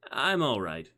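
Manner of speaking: a touch of sulk, insisting he's fine; a little sulky. A narrator's reading. Chris reassures Sophie after his tumble, a little sulky. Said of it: "he said, a little sulky".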